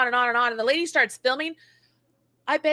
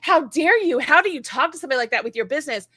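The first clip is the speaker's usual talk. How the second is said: mock indignant customer; 2 semitones higher, 3 dB louder than usual. Customer scolding her for her reply, mock indignation. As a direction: play the outraged customer clutching pearls. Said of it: "they're like".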